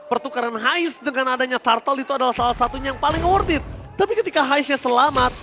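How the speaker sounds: rising excited play-by-play; esports caster. Real, not acted. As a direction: build the call as it happens. Live play-by-play.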